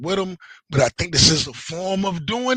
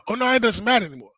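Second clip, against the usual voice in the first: mocking dismissive; 4 semitones higher, faster than usual. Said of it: "The bullshit of arguing with a woman".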